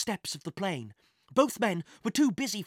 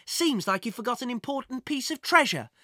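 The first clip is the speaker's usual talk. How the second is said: smug; 6 semitones higher than usual. A narrator's reading. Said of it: "smiling as if he held an important secret".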